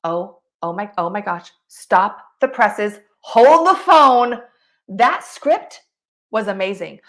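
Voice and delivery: loud, hammed-up gushing that builds to a yell; over-the-top gushing. Shown as a demonstration. Mocking a fake fan's overblown gush about a movie, hammed-up loud. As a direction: gush like a fake fan overselling it. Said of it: "you don't say this".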